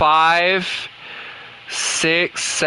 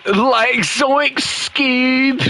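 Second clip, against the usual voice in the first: Shaggy; 6 semitones higher, much slower than usual. Shown as a demonstration. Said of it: "Sounds like a hippie".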